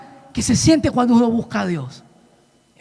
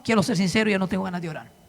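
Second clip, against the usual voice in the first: understated retold lament; sincere confession; 3 dB quieter than usual. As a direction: confess weariness to God quietly. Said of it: "le dije".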